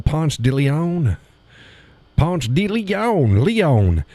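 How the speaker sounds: "Ponce de Leon" drawled out slow; butchered place name. Shown as a demonstration. Showing how Georgia butchers it, drawn-out "Ponce de Leon". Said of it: "they butchered".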